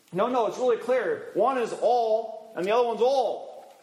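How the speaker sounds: high, laughing mock southern insistence; imitating the guy. Preacher mimics the YouTube guy insisting, high and laughing. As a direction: insist the two sound different while cracking up. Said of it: "he's like".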